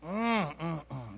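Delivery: drawn-out yummy "mm, mm, mm"; savoring mmm. Pretend. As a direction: hum as if tasting something delicious. Savoring the thought of hot dogs.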